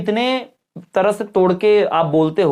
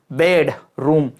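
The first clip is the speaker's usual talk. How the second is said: बेडरूम with bed drawn out, then room; stress on BED; 3 semitones lower, much slower than usual. Shown as a demonstration. Teacher demonstrating syllable force, first part stressed. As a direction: stretch and press the first half of बेडरूम. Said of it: "spoken with a greater degree of force".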